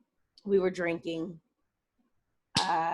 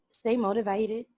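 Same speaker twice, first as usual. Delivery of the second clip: a little country. Real, not acted. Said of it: "That came out a little country".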